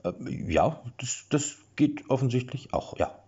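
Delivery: stammering, caught off guard; mildly taken aback, hesitating; baffled. A narrator's reading. Erik answering Killer after she floors the men, mildly baffled stammer. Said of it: "mit verdutztem Gesicht".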